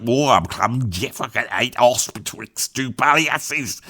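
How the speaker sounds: slow, low attempt at proper Black Country; badly faked Black Country accent. Shown as a demonstration. Showing the proper dialect he can't do, slow Black Country accent. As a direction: have a go at thick old Black Country dialect. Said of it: "proper black country I can't do".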